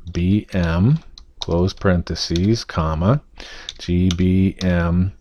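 slow, dictating code symbol by symbol. Shown as a demonstration. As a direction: read out each symbol for typing. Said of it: "So we're going to type in".

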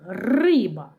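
Риба with a long rolled Р; first sound emphasized. Shown as a demonstration. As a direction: stretch the opening Р in Риба. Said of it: "Перший звук Р".

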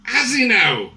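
hammed-up meek Irish nation; mock-unbothered. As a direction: feign polite indifference. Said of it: "responded as a nation like this".

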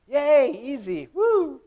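high, drawn-out mock cheer; hammed-up celebration of easy love. Mocking church people's easy love.

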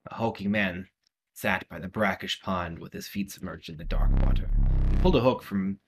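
measured storyteller reading; story narration. Acted. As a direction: read it like a dark tale. Reads game story text aloud.

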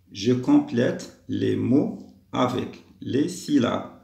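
very slow, word-by-word reading; slow dictation. Shown as a demonstration. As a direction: space out each word for young learners. Teacher reads out the instruction. (lecture lente, mot à mot)

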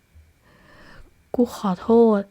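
halting apology, words dragged out slowly; lost and unsure, voice trembling; a confused friend apologising, trembling; shaky, confused voice. Acted. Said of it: "น้ำเสียงสั่นๆของคนที่แสดงออกว่ากำลังสับสน".

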